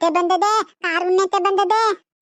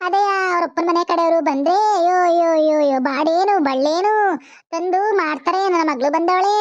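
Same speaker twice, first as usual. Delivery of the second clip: sing-song lamenting.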